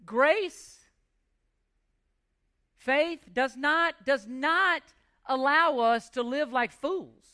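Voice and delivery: slow, every word weighed, "not" pressed; slow, weighty stress. Real, not acted. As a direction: slowly lean on "does not". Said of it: "You listen".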